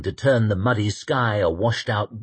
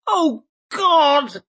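dismayed man's voice; 4 dB louder than usual. Acted. Temple dismayed by pursuers.

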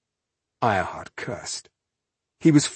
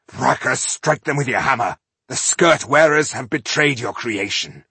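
fervent invocation; 4 semitones higher, 5 dB louder than usual. Acted. Ironheart calling on his god.

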